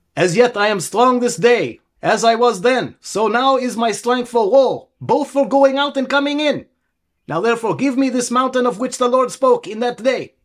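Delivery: put-on Israeli accent laid on thick, very high pitch. Continuing a biblical reading aloud in a put-on Israeli accent. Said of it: "A little bit more".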